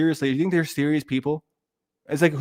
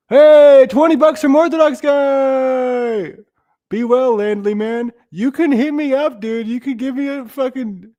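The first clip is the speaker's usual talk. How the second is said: much higher, louder, slow excited shout-out; excited thanks; 10 semitones higher, 8 dB louder, slower than usual. Real, not acted. Streamer thanking a donor for twenty bucks, loud and excited. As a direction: hype up the donor. Reacting to a donation.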